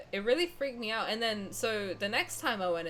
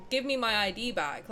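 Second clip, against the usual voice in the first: mildly raised, imitated insistent demand; retold rising demand; 2 semitones higher than usual. Customer demanding the card back from the cashier, mildly insistent. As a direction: retell a firm demand without really shouting. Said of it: "louder and louder and louder".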